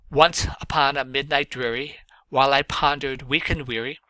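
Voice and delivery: measured recital, rising at each line end; poem recitation. Shown as a demonstration. Teacher reading Poe aloud to students, recited. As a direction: read it as a poem to the class.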